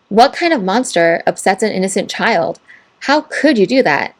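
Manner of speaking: mock outrage, dripping with sarcasm; sarcastic. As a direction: fake shock, laying the sarcasm on thick. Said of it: "I'm being very sarcastic here".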